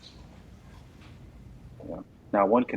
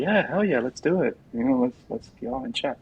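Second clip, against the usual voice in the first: eager yes; 6 semitones higher than usual. Retold or imitated. Eager reply to email invite.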